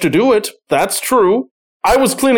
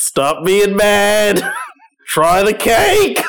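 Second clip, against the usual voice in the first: teasing coaxing; 4 semitones higher, slower than usual. Acted.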